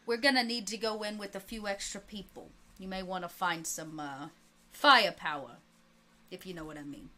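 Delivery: lightly voiced mob boss on the phone; a hint of an old-time gangster; Capone. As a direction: play a gangster boss taking a call. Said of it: "And the voice of Capone comes on".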